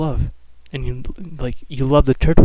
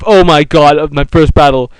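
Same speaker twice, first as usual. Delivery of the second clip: mock excited panic; 3 semitones higher, 8 dB louder than usual. First wild battle begins.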